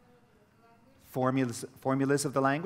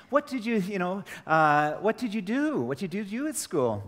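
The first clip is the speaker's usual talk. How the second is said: higher, louder questioning parent; pressing parent; 8 semitones higher, 3 dB louder than usual. Retold or imitated. A father pressing his son about school, in a high, insistent voice. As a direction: push for an answer, voice up high.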